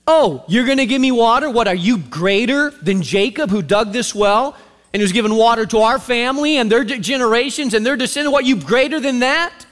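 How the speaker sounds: scoffing, incredulous challenge; chip on her shoulder. Acted. Samaritan woman challenging Jesus' claim, scoffing attitude. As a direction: push back with attitude, questions rising. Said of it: "And she's got a chip".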